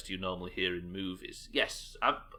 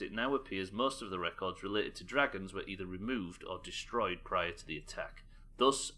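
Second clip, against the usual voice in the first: measured, formal document reading; dossier read-aloud. Acted. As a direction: read out an intelligence report.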